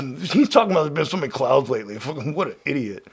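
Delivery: mocking self. Mocking himself in third person.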